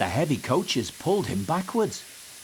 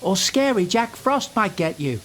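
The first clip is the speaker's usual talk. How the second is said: teasing; 7 semitones higher than usual. A narrator's reading. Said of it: "teased Thomas".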